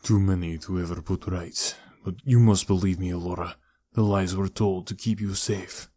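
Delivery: lightly voiced pleading uncle; remorseful uncle. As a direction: admit it gravely, asking to be believed.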